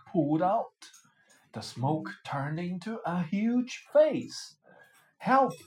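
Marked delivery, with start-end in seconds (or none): 5.2-5.5 high, loud frightened cry; panicked shout of help. A narrator's reading. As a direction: yell for help as the smoke face looms. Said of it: "cried the fisherman".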